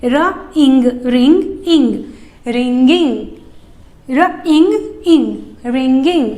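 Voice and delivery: "रिंग" plus "इंग" built step by step into "रिंगिंग"; sound blending game. Shown as a demonstration. Teacher making blending a game for kids. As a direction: chant the parts playfully into "रिंगिंग". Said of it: "game के जैसा बन जाता है".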